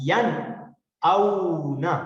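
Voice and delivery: ین اونا with a clear n and no nasal hum; clear n recitation. Shown as a demonstration. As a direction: recite ین اونا for the class to repeat. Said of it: "آپ میرے ساتھ پڑھیں". (ین اونا صاف نون کے ساتھ)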